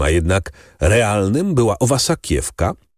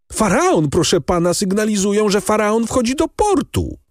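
high, breathless with good news; overjoyed announcing; 11 semitones higher than usual. A narrator's reading. Emanuel telling Morel the ship has come in, overjoyed. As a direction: blurt it out, much higher, almost singing.

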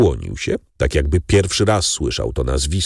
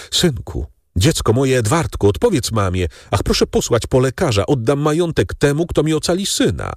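higher, pleading mother in a mild panic; sobbing mother; 7 semitones higher than usual. A narrator's reading. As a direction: beg for the son with a touch of sobbing. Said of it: "rozszlochaną matkę". (błagająca matka, lekko załamanym, wyższym głosem)

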